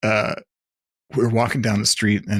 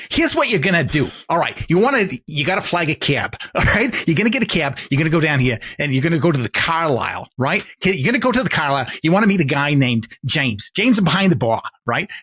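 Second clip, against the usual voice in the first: a lightly voiced eager local, higher and faster; excited New York stranger; 4 semitones higher than usual. Retelling the stranger giving bar directions, lightly voiced and eager. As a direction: rattle off directions like a keen New Yorker. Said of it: "he looks like Woody Allen".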